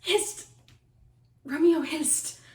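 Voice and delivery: high, loud hissed call; falconry recall call. Acted. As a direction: call him back like a falconer. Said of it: "for a falconer's voice to lure this tassel gentle back".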